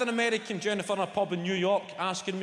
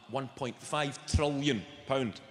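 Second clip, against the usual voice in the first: slow emphasis; 2 semitones lower, slower than usual. Real, not acted. Stressing huge debt figure.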